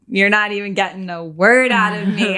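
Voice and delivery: a lightly voiced defiant refusal; mild mock defiance, said to someone she doesn't trust; stubborn shut-down retort. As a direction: play the stone wall who won't give an inch. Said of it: "I'm like".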